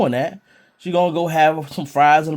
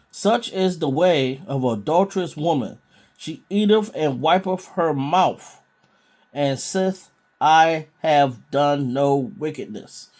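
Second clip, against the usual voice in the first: slow, deliberate Bible reading; scripture reading; slower than usual. Acted. Preacher reading a Proverbs verse to listeners, measured scripture reading. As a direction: read the verse out slowly, word by word.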